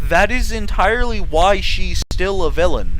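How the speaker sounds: loud, emphatic ranting; angry rant. Real, not acted. Telling fans off about Tattletale, loud and angry.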